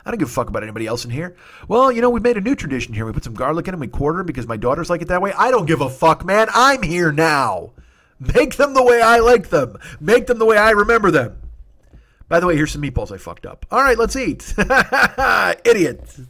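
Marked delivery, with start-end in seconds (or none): 1.7-5.3 mocking the relative. 5.3-11.4 loud, high, slowed demand; mock outraged rant. Ranting about ruined potatoes. 13.7-16.2 loud, high laugh into a jokey insult; laughing at himself. Real, not acted.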